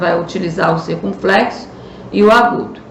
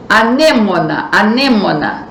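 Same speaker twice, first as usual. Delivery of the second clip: "Anêmona" com NÊ fechado e destacado; sílaba tônica fechada. Shown as a demonstration. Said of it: "também é fechado". ("anêmona" dito duas vezes, marcando o NÊ)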